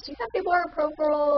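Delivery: quoting the nurse. Retold or imitated. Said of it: "when I heard her ... say to the other nurse".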